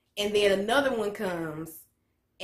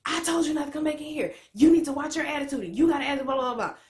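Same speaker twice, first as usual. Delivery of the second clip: raised pitch, lightly hammed-up lecture; mock officer scolding; 6 semitones higher, faster than usual. Officer in her face, scolding her, mock stern. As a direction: imitate a cop scolding, pitch up. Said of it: "the officer was all in my face".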